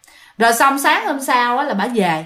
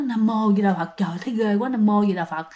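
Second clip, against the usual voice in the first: muttered prayer; 3 semitones lower, 5 dB quieter than usual. Acted. Frightened woman muttering a prayer.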